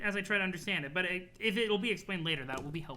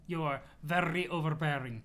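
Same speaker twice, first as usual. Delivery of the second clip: mock the other troll's silly accent; VERY OVERBEARING in a put-on silly accent. Troll privately mimicking CA, in a silly accent. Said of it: "out loud in your silly accent".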